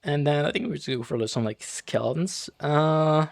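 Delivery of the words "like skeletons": cracked voice, slow, rising. Real, not acted. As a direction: voice cracking on the word. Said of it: "Nice voice crack".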